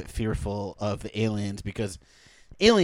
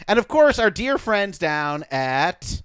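ad read; 2 semitones higher than usual. Acted. Mock sponsor read.

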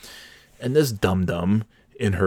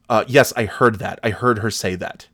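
mildly mimicked curt comeback; snapped rude retort; 4 dB louder than usual. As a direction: snap back at her, a touch louder at first. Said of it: "Like, very rude. Like, very, just snapped".

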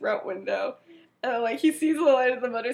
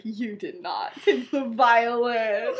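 laughing disbelief; slower than usual. Retold or imitated. Sirius disbelieving Remus.

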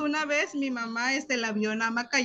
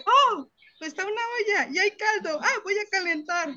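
imitating sister; 8 semitones higher than usual. Hermana retells sister's message.

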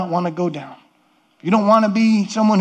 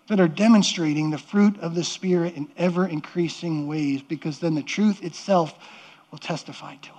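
soft and low, dying to a breath; softer and softer until whispered; fading to a whisper; 3 semitones lower, 6 dB quieter than usual. Real, not acted. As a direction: let the line fade into a whisper. Closing thought fades out.

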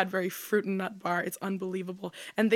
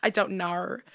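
mock Australian. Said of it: "a roast of Australian accents".

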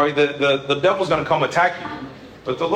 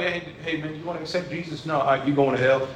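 mock pushy preacher; 4 semitones lower, 5 dB quieter than usual. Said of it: "be like".

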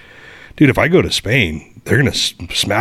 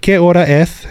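teacher voice; 10 semitones higher, 3 dB louder than usual. Retold or imitated. Teacher asking the time.

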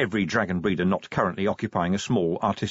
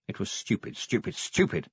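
muttered to himself, unvoiced and soft; muttering; 5 dB quieter than usual. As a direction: breathe it out in self-disgust. Self-reproach, muttered.

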